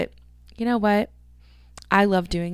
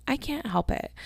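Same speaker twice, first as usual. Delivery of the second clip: high, soft whiny repeat; sulky high plea; whiny protest; 6 semitones higher, 5 dB quieter than usual. Real, not acted. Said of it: "Quit yawning in your podcast".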